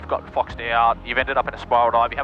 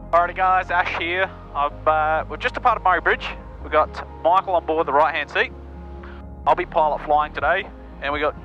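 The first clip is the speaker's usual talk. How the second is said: raised voice over engine noise; shouting in propeller plane; 3 semitones higher than usual. Real, not acted. Talking in cockpit after takeoff.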